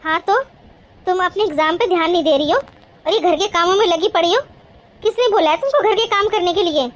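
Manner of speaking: mildly cross, insistent telling-off; scolding. Acted. Bhabhi orders Gudiya back to her studies, mildly scolding. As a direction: lay down the rule firmly, with mild anger. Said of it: "इसलिए डांट मार रही है".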